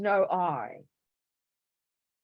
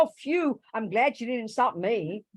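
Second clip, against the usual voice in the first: mock relief; 4 semitones higher than usual. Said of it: "it'll go".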